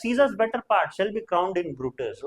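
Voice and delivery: slow, deliberate Shakespeare line; slow recitation. Shown as a demonstration. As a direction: read slowly, lingering on Caesar's. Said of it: "fourth citizen बोलता है".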